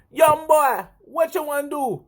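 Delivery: high, Jamaican-sounding attempt at a Grenadian accent; botched Grenadian accent. Imitating coworker counselling him, high botched Grenadian accent. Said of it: "I'm gonna mess up your accent totally right here".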